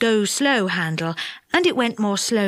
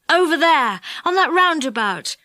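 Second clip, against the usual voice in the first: eager cry; 4 semitones higher than usual. Acted. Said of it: "cried Joe".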